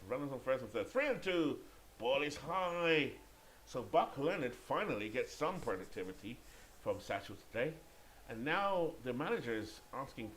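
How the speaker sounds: lively baseball commentary, peaking on the pitch call; play-by-play. Pretend. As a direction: stretch the pitch call, then explain the change.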